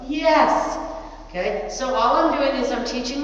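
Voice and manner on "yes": excited dog praise; quick happy burst of yes. Real, not acted. Praising dog after weave pass.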